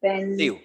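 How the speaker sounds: teacher sounding out "पेन-, सिव" for the class; syllable by syllable. Shown as a demonstration. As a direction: chop "पेन-, सिव" apart with a pause between. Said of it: "तीन बार हुआ".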